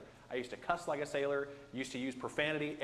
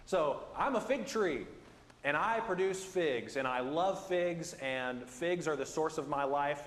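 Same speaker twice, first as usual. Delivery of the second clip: fig tree voice; 3 semitones higher, slower than usual. Pretend. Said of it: "take this whole fig tree thing a little too far".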